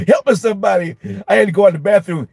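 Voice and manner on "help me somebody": higher-pitched, hammed-up cry for help; mock desperate plea. Overwhelmed teacher escaping to the bathroom, mock desperate plea. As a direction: plead for rescue in comic despair.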